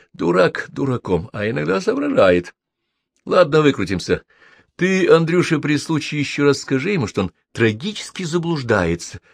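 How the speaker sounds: grumbling with mild annoyance; annoyed. A narrator's reading. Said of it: "В голосе Арчи послышалась досада". (с лёгкой досадой)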